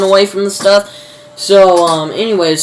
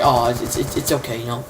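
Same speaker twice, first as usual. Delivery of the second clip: mock comforting; 5 semitones lower, 8 dB quieter than usual. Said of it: "she starts crying. He's just like".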